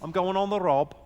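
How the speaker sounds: stretched-out comic Scouse; mock-authentic Scouse patter; Scouse accent. Shown as a demonstration. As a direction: play it up in broad Scouse. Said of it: "say something properly, authentically Scouse".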